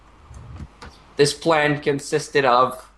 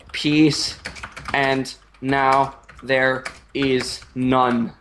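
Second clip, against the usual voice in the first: slow, solemn mock-heroic declaration; dramatic captain speech; much slower than usual. The captain mourning the burning land, slow solemn mock-heroic speech. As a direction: deliver it slowly like a grave movie hero. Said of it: "he's just like".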